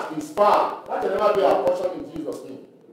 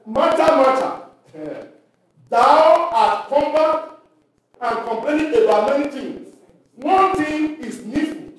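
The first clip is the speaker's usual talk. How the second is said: Christ gently rebuking; 4 semitones higher than usual. Acted. Preacher voicing Christ's rebuke.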